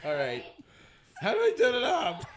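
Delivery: voice changer. Acted. Still on voice changer.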